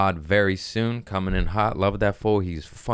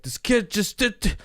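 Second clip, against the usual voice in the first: imitating the wet neighbor. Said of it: "he's like".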